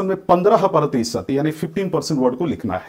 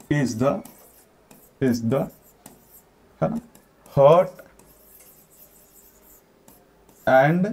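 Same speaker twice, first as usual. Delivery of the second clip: slow dictation; 3 semitones lower, much slower than usual. Shown as a demonstration. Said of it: "dictating the line word by word".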